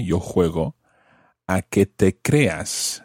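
「yo juego, a que te creas」をゆっくり一語ずつ; slow teaching read. Shown as a demonstration. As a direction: spell out each word slowly for learners. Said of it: "So, I play".

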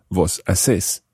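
vos haces as vos a-SÉS; slow "haces", stress on the last syllable; stress on final syllable. Shown as a demonstration. Teacher showing the vos form, haces stressed on final syllable. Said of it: "notice that the stress changes here".

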